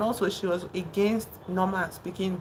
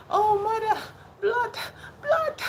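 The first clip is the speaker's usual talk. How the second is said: high-pitched mimicked cry of horror; mock shouting; slower than usual. Norman crying out to his mother over the blood, high mock shout. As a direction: imitate a horrified son in a very high voice. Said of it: "he starts to shout at his mother".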